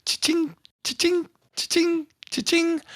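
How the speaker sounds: high jingling cha-ching of spurs. Shown as a demonstration. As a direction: sing out the spur jingle, up high. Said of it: "it sounds almost like, if, like the Old West movies".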